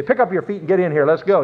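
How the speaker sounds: brisk, curt husband's order, acted out; impatient. Husband now rushes wife into the car, mock impatient.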